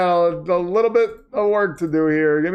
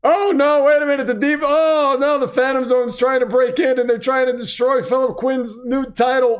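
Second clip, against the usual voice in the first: higher-pitched play-by-play panic; mock alarm; 4 semitones higher than usual. Commentator reporting the Phantom Zone breaking in, mock alarm. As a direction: play up a sudden emergency. Mock invasion interrupts the announcement.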